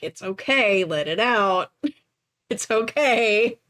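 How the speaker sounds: low, gentle comforting to a crying dragon; soothing. Acted. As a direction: hush her like a mother patting her back. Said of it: "the slow pat thing".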